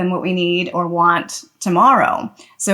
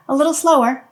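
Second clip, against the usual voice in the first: gentle matter-of-fact; 6 semitones higher than usual. Shown as a demonstration. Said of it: "just with a gentle tone of voice and just matter of fact".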